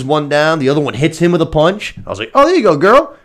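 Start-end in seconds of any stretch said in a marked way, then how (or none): 2.3-3.1 cheering. Retold or imitated. Cheering at screen.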